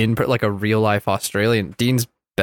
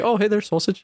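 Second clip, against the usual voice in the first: imitating Australian accent; 8 semitones higher than usual. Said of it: "but with, like, an Australian accent".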